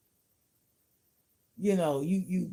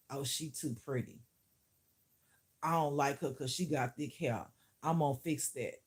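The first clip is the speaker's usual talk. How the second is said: lower, softer mock scheming; imitated jealous hater; 3 semitones lower, 6 dB quieter than usual. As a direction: lightly voice a hater plotting to herself.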